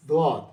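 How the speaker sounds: ضاد said full and heavy, neither zaal nor daal; correct heavy daad. Shown as a demonstration. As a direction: land on the true ضاد. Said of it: "لیکن اصل میں یہ ہے ضاد". (اصل ضاد، بھاری آواز سے)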